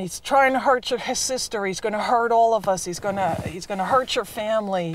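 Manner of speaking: retold urging, pressing the warning on him; urgent goading. Father telling his son to attack Jimmy, urgently goading.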